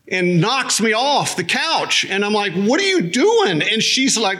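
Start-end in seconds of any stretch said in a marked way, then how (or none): 2.5-3.6 higher, startled what are you doing; indignant question. Retold or imitated. Husband asking his wife why she knocked him off the couch, startled. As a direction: demand to know, taken aback.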